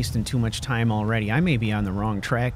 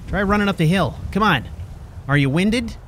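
taunting; 5 semitones higher, 3 dB louder than usual. Real, not acted. Taunting chaser while running.

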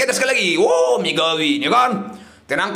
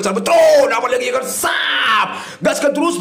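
excited urging; 4 semitones higher than usual. Real, not acted. Urging the slot on.

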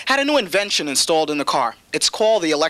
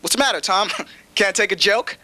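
higher, brash streetwise friend; buddy ribbing a dying patient, higher and brash; blunt street buddy; 7 semitones higher than usual. Retold or imitated. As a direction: tease the patient like a rude old pal. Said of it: "You never hear".

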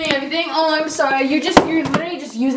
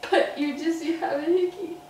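softer, tearful reproach; crying; 6 dB quieter than usual. Real, not acted. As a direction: reproach through tears, voice dropped in volume. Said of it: "Are you really crying?".

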